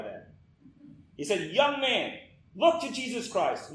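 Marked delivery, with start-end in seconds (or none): 1.5-3.7 raised, higher preacher's call; restrained mock shout. Preacher to miserable young Spurgeon, restrained shout. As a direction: call it out without a full shout. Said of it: "he shouted at the top of his voice".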